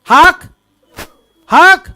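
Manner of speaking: short forceful hawking noise, pitch rising; imitated spitting out. Shown as a demonstration. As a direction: hawk it out for others to copy. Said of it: "जोर से बोलो यार".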